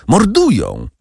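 high desperate cry while falling; falling scream. A narrator's reading. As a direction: shout it as you go down. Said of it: "Padając, krzyknął". (krzyk w czasie upadku)

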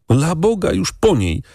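put-on high, grief-struck boyish outcry; boy's cry. A narrator's reading. Boy cries out when the partridge dies in the lady's hand. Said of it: "krzyknął chłopczyna".

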